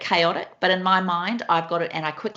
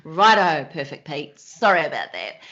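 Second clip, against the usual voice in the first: teasing apology; 3 dB louder than usual. Retold or imitated. Wife teasing husband after a dishwasher slip, mock apology. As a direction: playfully humour a fussy partner. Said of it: "I'll just go".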